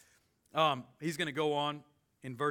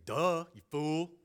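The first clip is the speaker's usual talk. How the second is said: scornful Paul. Retold or imitated. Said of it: "I think he wanted to say".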